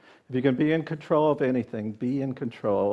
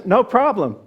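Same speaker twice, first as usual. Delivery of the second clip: genie granting wish; 8 semitones higher, 7 dB louder than usual. Acted. Genie voiced in story.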